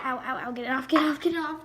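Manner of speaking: rising loud panic; panicked yelp. Real, not acted. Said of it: "It's really hot".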